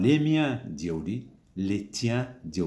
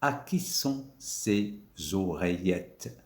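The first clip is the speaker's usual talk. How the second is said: slow model question; slower than usual. Shown as a demonstration. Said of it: "on a choisi le mot ici".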